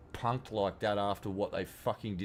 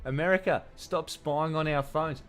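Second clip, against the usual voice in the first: higher, louder mocking whine, slowing on the second half; mock CCP complaint; 6 semitones higher, 4 dB louder than usual. Mocking China scolding America over phones, hammed-up indignant whine.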